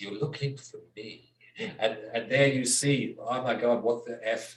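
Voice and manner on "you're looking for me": soft, hushed, almost half-whispered voice. Retelling a film scene, the killer answering the detectives: John Doe near half-whisper. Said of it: "he pretty much near whispers".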